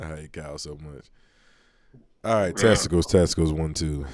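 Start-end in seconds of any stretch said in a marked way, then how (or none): 2.2-4.1 loud mic check. Real, not acted. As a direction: call it out into the mic. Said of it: "I was just testing my mic".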